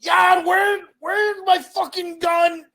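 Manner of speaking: high, loud, slow mock shout; dad shouting in the background; dad yelling. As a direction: bellow it like a dad hunting for his gun. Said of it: "I hear my dad in the background".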